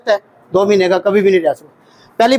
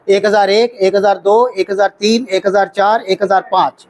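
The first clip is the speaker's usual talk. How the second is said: steady, even one-thousand count; counting seconds; 2 semitones lower than usual. Shown as a demonstration. Instructor demonstrating an even second count for students. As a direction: count each second out evenly. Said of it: "वो formula है".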